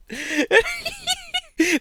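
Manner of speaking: high laughing squeal; laughing shriek. Real, not acted.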